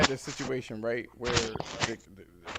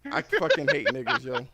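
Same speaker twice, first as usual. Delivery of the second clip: higher, louder frustrated outburst; inner outburst; 3 semitones higher, 5 dB louder than usual. Retold or imitated. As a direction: vent it in your head. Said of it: "the thing in my head was like".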